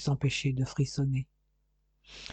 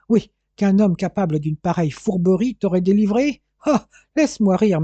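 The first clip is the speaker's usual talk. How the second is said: rising, indignant scoff; scornful disbelief; 3 semitones higher, 5 dB louder than usual. Acted. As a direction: build to a louder, derisive outburst. Father ridicules his daughter's belief. (incrédulité indignée et méprisante)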